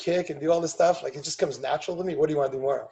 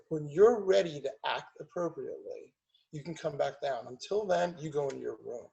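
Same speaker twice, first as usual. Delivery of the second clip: calm and firm; 5 dB quieter than usual. Retold or imitated. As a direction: set the limit without raising your voice. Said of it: "And I just was calm".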